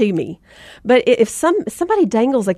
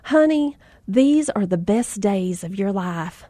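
put-on sweet older lady; 3 semitones lower than usual. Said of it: "she waltzed up and she said".

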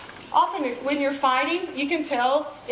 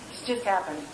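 hint of a sly, lower devil's voice; low, quiet devil's taunt; 5 semitones lower, 3 dB quieter than usual. Repeating what the devil told her, low and sly. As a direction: drop the voice and let the devil whisper it. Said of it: "I hear the devil say".

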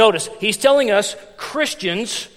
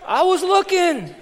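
laughing; 8 semitones higher, slower than usual. Real, not acted. Laughing at his own excuse.

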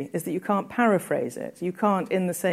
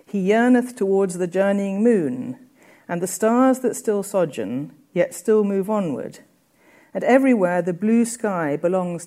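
reading Coleridge's gloss aloud to the class; prose reading. Acted. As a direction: read the gloss out in full.

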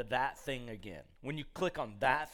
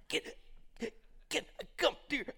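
high, gasping broken plea; mock choking; 10 semitones higher, 6 dB quieter, much faster than usual. Allergic friend phoning at three in the morning, mock gasping. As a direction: imitate someone barely getting words out.

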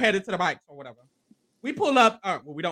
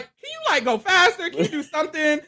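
impatient imitation; 5 semitones higher than usual. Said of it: "And Claire's like".

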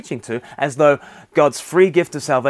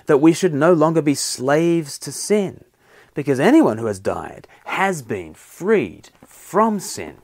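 scripture reading; 4 dB louder than usual. Acted. Reads Romans six aloud to congregation.

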